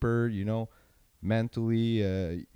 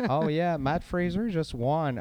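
higher, mock announcer repeating the obvious; hammed-up commentator, higher pitch; mock parrot announcer; 6 semitones higher, slower than usual. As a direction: parody a commentator stating the obvious. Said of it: "parrots that are just repeating".

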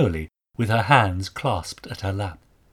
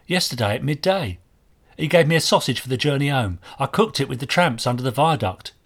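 put-on higher-pitched boy answering an inspector; young market boy; 3 semitones higher, 4 dB louder than usual. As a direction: play the working lad giving his account. Voices the boy Archie in dialogue.

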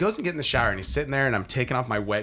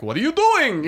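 high, mock-exasperated kid voice; lightly voiced outraged little boy; imitating his son; 12 semitones higher, 3 dB louder than usual. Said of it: "he opens his arms up wide and he goes like".

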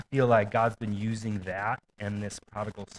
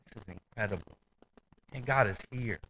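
gentle whisper; 5 dB quieter than usual. Retold or imitated. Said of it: "whispered in a gentle tone".

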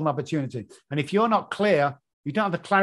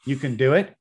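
put-on louder, pumped-up English accent cheer; encouraging shout; 2 semitones lower, 5 dB louder, slower than usual. Coach's voice in his clients' heads, loud English encouragement. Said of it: "they hear my stupid accent going".

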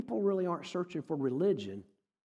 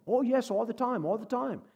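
put-on British accent; 6 semitones higher than usual. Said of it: "And he had an accent".

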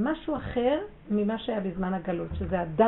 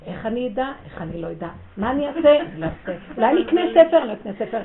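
mock inner doubts; 4 semitones higher, 7 dB louder than usual. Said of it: "חושבים".

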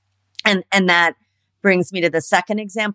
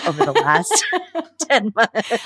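laughing whisper; 6 semitones higher than usual. Real, not acted. Laughing while asking a question.

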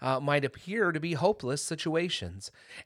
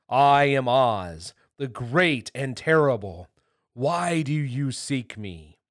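loud, slow, solemn proclamation; grand, stately voice announcing himself; 7 dB louder, slower than usual. A narrator's reading. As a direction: boom it out slowly like a mighty wizard. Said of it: "they heard a solemn voice".

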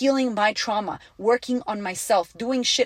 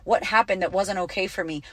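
usual speaking voice

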